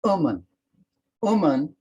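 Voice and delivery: Woman said as oo-man, dropping the w-o; the southwest English Woman, oomun; dialect word woman. Shown as a demonstration. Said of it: "woman is not only still heard".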